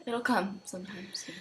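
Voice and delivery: soft whisper. Real, not acted. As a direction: whisper it gently. Quiet reassurance during hiccups.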